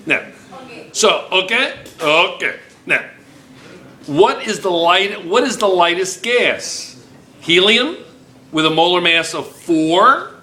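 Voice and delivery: a hint of a put-on Uzbek accent; light Uzbek-style accent while quizzing; mock foreign accent. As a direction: keep the playful fake Uzbek accent going. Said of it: "You sound like Russian".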